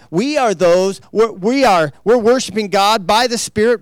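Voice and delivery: declaring the verse boldly; emphatic quote. Shown as a demonstration. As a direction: proclaim it with force. Quoting the verse again.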